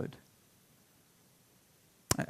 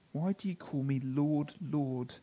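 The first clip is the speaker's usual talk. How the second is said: softer, inward Why do you call me Lord; quiet repeat; 8 dB quieter than usual. Acted. Preacher repeating Jesus' question to the congregation, quietly. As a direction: hush it, let it sink in. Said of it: "Jesus' target here isn't so much".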